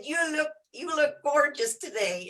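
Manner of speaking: lightly imitated Texan; Texan accent. Retelling a big Texan's compliment, mock Texan accent. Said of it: "in his Texas act".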